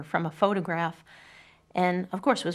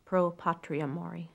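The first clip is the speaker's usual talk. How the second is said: whispered closing line; fading final whisper; 4 dB quieter than usual. Acted. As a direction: breathe the last Latin words out in a whisper.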